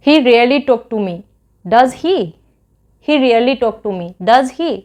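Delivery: slow, clear teaching read with a falling tag; slow model sentence. Shown as a demonstration. Teacher showing students how to say the English tag, slow and clear. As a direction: spell it out slowly, twice over. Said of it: "वो मैं ऐसे बोलूँगी English में कि".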